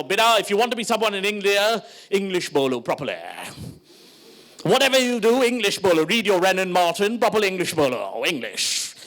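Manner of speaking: lightly exaggerated British-Indian accent; mock-proper English accent. Parent lecturing child on English, mock-proper English accent. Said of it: "sounded like you were auditioning for fucking Gandhi".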